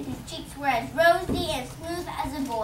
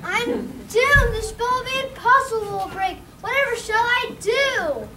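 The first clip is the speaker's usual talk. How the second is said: despairing; 7 semitones higher, 5 dB louder than usual. Acted. Drosselmeyer despairs.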